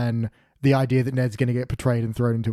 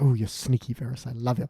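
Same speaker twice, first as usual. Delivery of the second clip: quiet mock Varys; 2 semitones lower, 6 dB quieter than usual. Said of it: "In that very Varys kind of".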